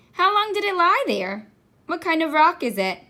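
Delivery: put-on high excited child questions; eager questions. A narrator's reading. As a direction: tumble out the questions in wonder.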